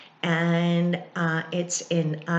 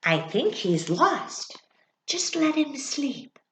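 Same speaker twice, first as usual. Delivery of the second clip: mouse whispering to the others; 8 semitones higher than usual. Acted. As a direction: ease into a whisper so he can sleep. Mouse speaks softly.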